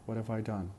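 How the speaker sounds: "have" weakened to "uv", glued to "What"; reduced "have". Shown as a demonstration. Teacher showing learners weak auxiliaries, reduced "have". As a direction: run "What have I done" together as "whatuv-I done". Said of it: "we say have".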